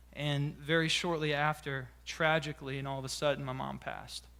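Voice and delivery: quiet, heavy announcement of a death; somber. Real, not acted. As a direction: let the voice sink and soften with loss. Recounts his mother's death.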